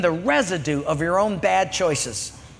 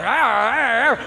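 dog growl; 3 semitones higher than usual. Retold or imitated. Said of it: "dog snarling".

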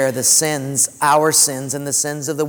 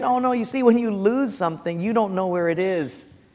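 a touch higher, cheerful widow; light widow voice; 4 semitones higher than usual. Retold or imitated. Lightly voiced widow reassuring the pastor, brushing it off. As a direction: play the widow brushing off his pity. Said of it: "She said".

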